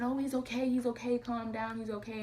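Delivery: retold reassurance. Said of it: "he was trying to keep me calm".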